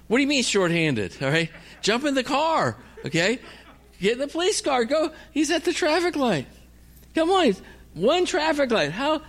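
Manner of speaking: high-pitched, incredulous protest; exasperated urging. Retold or imitated. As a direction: plead and order them into action, pitch climbing high. Acted argument with the police.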